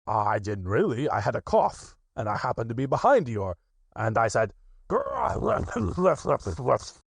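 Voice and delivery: lightly voiced tiger; Tigger voice. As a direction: Tigger protesting. Tigger explains.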